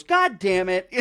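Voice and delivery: hammed-up frustrated outburst; mock exasperation. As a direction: curse like a thwarted negotiator. Voicing the frustrated negotiator.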